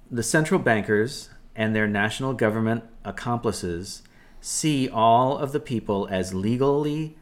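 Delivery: measured, deliberate read-aloud of an article. Acted. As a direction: read the post out carefully, phrase by phrase. Reads post aloud.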